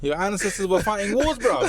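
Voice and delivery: imitated London street motivator, high-pitched mock rant; Upna Jay. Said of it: "the birthday video".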